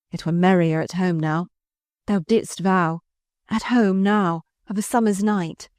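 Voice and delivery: usual speaking voice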